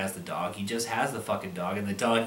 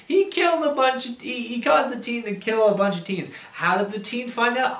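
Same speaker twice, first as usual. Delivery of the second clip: exasperated shouting; 11 semitones higher than usual. Real, not acted. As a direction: shout it in disbelief, voice cracking high. Exasperated yelling about the plot.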